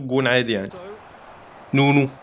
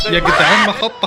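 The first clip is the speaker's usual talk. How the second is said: laughing it out, a bit louder; 4 semitones higher, 4 dB louder than usual. Real, not acted. Gamer laughing to viewers at the play. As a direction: crack up mid-shout.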